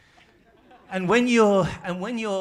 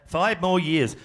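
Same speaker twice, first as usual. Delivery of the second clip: "Five more years" loud, in three strong beats; "Five more years" as a loud political chant; 2 semitones higher, 8 dB louder, slower than usual. Shown as a demonstration. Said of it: "They're kind of strong beats".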